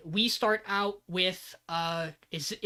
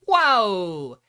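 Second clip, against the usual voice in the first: loud startled exclamation; shocked whoa; 9 dB louder than usual. Retold or imitated. Tomo reacting loudly to shocking advice. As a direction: blurt it out, scandalised. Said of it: "And she's like".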